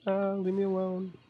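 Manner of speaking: high, panicked plea to a spider; scared of spiders. Real, not acted. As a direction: squeal it out as the spider closes in. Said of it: "I am terrified of spiders in real life".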